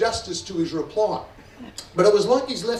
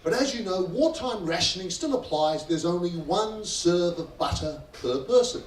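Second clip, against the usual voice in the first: polite waiter. Retold or imitated. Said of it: "very politely, very properly".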